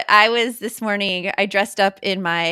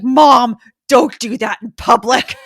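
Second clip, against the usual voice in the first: embarrassed son; 4 semitones higher, 8 dB louder than usual. Retold or imitated. Son's embarrassed plea retold.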